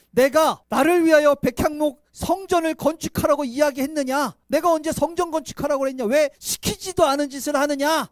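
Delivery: God sternly rebuking David; stern rebuke. Acted. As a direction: scold like an offended father.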